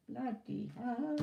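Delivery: slow, said through a yawn. Real, not acted. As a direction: yawn out the words. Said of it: "sat here yawning my head off".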